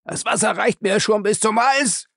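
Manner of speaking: high, panicked gasping. Acted. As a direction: gasp it while drowning. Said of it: "keuchte Lacey".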